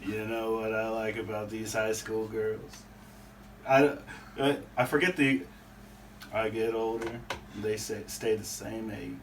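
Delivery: slow lazy southern drawl; McConaughey drawl. Retold or imitated. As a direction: stretch it out slow and easy. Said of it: "I think I know what he's about to do".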